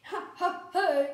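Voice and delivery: acted storybook chuckle; read-out laugh. A narrator's reading. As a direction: laugh in separate, deliberate syllables. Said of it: "Mister Rogers laughed".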